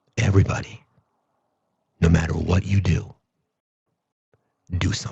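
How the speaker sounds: very deep, low, hushed seductive voice. Giving the people what they want, delivering a line in a mock-seductive voice. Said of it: "a seductive line in a seductive voice".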